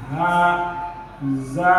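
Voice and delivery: low, soft "haza", both vowels long; both vowels stretched. Shown as a demonstration. Teacher explaining alif, "haza" stretched. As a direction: draw out each vowel of "haza". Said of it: "Both of them are stretched".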